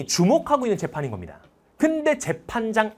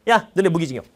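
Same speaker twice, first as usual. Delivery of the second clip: blunt official; 5 dB louder than usual. Retold or imitated. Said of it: "이게 아니야".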